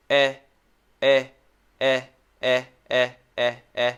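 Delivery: eh with tongue totally relaxed; relaxed short e. Shown as a demonstration. Teacher showing the relaxed tongue for short e. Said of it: "It does absolutely nothing".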